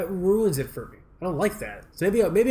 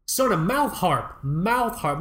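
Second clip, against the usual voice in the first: slow insistent customer; 4 semitones higher, slower than usual. Retold or imitated. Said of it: "He's like".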